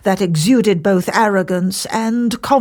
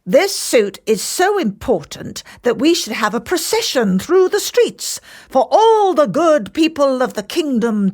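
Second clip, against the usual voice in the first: raised, announcing to the court; sly courtier speaking up; mischievous courtier; 6 semitones higher than usual. Acted. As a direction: proclaim the idea for all to hear. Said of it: "loudly for all to hear".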